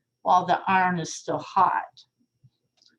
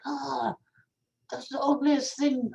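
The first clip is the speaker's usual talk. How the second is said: put-on a botched, half-hearted French accent, pitched higher; attempted French accent; 6 semitones higher than usual. Parisians sneering at the new tower, in a failed French accent. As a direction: try a French accent and give up on it.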